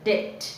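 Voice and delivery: డెట్ with no B sound; silent B. Shown as a demonstration. Teacher shows debt's B is silent, silent B. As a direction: say డెట్ as det, leaving out the B. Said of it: "ఇక్కడ బి silent".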